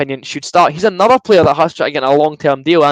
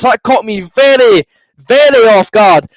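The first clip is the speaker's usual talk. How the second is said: still buzzing; 7 semitones higher, 6 dB louder, slower than usual. Real, not acted. Still breathless after the goal.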